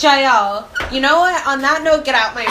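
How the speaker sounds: loud, high, mock-offended telling off; hammed-up order to get out of the room; playful loud scolding of little sister; mock indignant shout. Retold kicking sister out.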